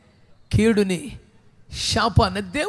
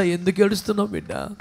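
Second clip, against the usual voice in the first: tender question; 3 dB quieter than usual. Retold or imitated. Jesus tenderly asks weeping woman.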